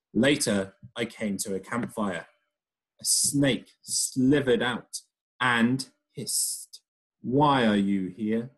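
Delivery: lively storytelling voice, characters acted out; reading to children. Teacher reading a story aloud to her pupils, lively storybook voice. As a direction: read it like a picture book to a class.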